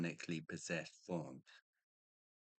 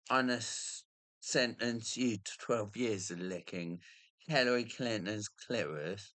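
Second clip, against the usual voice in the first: mock judge sentencing; 3 semitones higher, 4 dB louder than usual.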